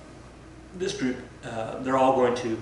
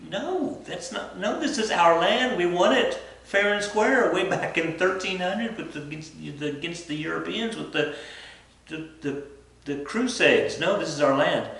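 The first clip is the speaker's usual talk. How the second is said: mock indignant protest; 6 semitones higher than usual. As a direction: squeal it out like an outraged claimant. Voicing Arabs insisting on land.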